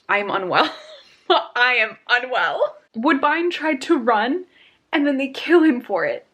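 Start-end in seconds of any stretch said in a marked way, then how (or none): 1.3-2.8 said through a laugh, slowed down. Real, not acted. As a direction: laugh it out in disbelief. Reacting to the shocking chapter.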